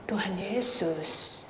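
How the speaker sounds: ordinary talk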